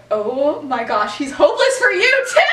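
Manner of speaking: delighted gushing realization; Lily shrieking with glee as it clicks; excited squeal. Retold or imitated.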